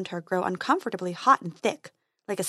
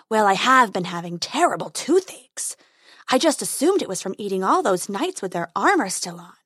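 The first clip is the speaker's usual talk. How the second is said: growling dragon guarding treasure. Acted.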